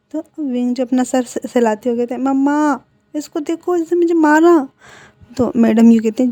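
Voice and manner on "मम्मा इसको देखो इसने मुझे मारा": tattling complaint. Acted. Wing complains to mother.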